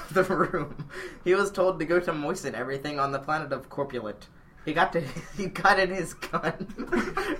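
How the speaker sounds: fighting back giggles; reading through bursts of laughter; laughing while reading. Real, not acted. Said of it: "Try to keep a straight face".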